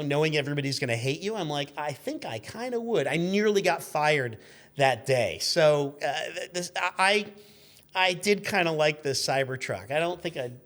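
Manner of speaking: ordinary talk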